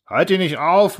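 high-pitched heckle; calling out. A narrator's reading. Someone at the back to the speaker, calling out. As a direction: call out impatiently from the back. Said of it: "rief jemand von hinten".

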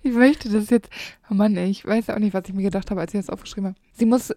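usual speaking voice

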